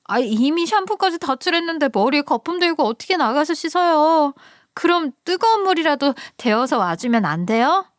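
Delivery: put-on high, pleading young woman's voice; sister-in-law calling out from the shower, high and pleading; whiny sister-in-law. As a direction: whine up high from the cold shower. Sister-in-law begs for hot water.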